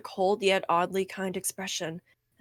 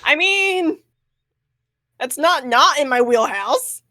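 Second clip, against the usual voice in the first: laughing; 5 semitones higher, 9 dB louder, slower than usual. Real, not acted. Laughing reply, high and loud.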